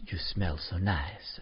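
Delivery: slow mock Italian accent, lightly done; a hint of a smooth Italian charmer. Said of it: "That was my Italian accent".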